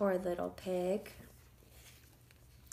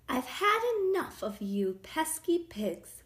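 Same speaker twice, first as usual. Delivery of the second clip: higher-pitched fed-up mother, lightly acted; exasperated scolding; 6 semitones higher, 4 dB louder than usual. A narrator's reading. Mother telling off her pesky pigs, mildly exasperated. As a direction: scold in a raised storytelling voice.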